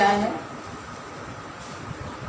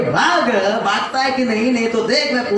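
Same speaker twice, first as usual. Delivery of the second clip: scolding command; 3 semitones higher than usual. Pretend. Scolding a thief to run off, mock stern. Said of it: "डांट के बोलेंगे".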